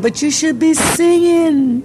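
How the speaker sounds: high urging quote. Retold or imitated. Friend urging her to sing.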